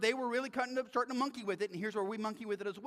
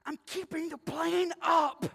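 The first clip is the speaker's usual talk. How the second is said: high, strained-effort shout; frantic shout; 7 semitones higher, 5 dB louder than usual. Acted. Frantic passenger answers his seatmate mid-flight, shouting. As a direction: shout it as if holding everything up.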